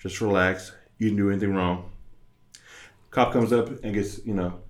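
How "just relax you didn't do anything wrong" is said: calming self-talk. Retold or imitated. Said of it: "I sit there, and I'm like".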